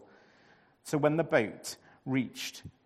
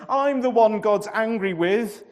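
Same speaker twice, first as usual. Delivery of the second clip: groaning confession; 6 semitones higher, 9 dB louder than usual. A narrator's reading. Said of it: "Jonah groaned".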